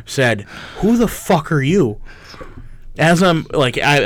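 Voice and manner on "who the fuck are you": dry, flat-faced question; deadpan. Retold or imitated. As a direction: ask it dead straight, no smile. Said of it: "deadpan face straight said".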